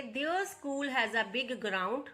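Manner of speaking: very slow, every word laid out for students; slow dictation read. Shown as a demonstration. Teacher reading the example to her students, slow and deliberate. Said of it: "teacher rereads example sentence".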